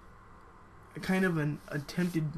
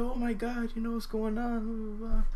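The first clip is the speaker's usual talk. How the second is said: lightly imitated grandmother, high and alarmed; mock alarm; 6 semitones higher than usual. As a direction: act out a startled grandma in a raised pitch. Grandma alarmed as door is kicked.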